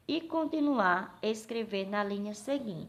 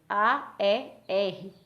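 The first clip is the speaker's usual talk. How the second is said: slow, louder A, E, R one by one; separado, soletrando; 5 dB louder, much slower than usual. Shown as a demonstration. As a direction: spell out each piece separately and firmly. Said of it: "separei a sílaba da palavra aérea". (soletrando devagar, com ênfase)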